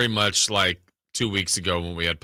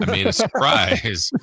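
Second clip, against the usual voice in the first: mock excited wife; 12 semitones higher, slower than usual. Wife's excited reveal retold.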